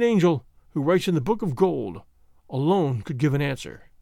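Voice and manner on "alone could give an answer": usual speaking voice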